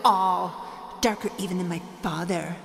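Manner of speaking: echoing evil villain speech; grand dark lord monologue; booming echoing villain monologue. Acted. Villain's evil monologue, named line 58.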